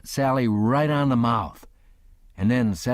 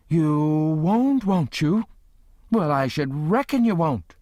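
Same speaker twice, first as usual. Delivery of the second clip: sarcastic aunt; 7 semitones higher than usual. A narrator's reading. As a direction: throw his words back at him. Aunt Sally mocking threat.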